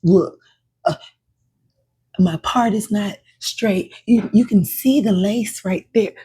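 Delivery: loud, high, laughing excuses; excited rambling. Acted. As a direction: babble excuses about your hair. Acting out flustered hair excuses.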